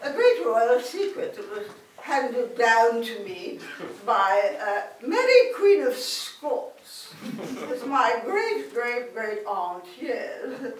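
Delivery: a hint of a haughty English aristocrat; mild mock royal voice; lightly voiced posh duchess. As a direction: play a prim duchess sharing a secret. Plays posh Duchess character.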